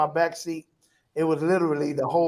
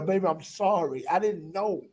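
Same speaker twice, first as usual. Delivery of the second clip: tearful apology; 6 dB quieter than usual. Retold or imitated. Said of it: "and I'm just crying".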